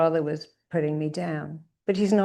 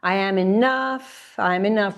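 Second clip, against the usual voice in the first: emphatic affirmation; 3 semitones higher than usual. Shown as a demonstration. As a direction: state it with conviction. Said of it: "And again".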